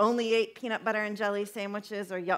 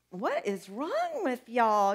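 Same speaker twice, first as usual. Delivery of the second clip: exasperated mock question; slower than usual. Preacher mocking ancient complainers.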